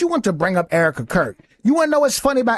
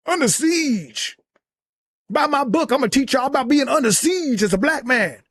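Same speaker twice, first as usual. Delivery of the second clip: lightly hammed-up, higher-pitched sales plug; pleading mock sales pitch; mock book pitch; 4 semitones higher than usual. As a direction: imitate a pushy self-promoter, pitched up a little. Mockingly acts out Tatum's book pitch.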